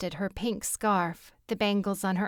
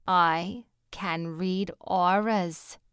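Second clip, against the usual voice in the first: breathy; much slower than usual. Acted. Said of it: "she breathed".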